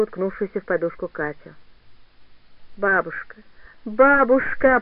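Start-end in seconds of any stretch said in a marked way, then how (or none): 2.8-4.8 muffled moan. Acted. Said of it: "простонала та глухо".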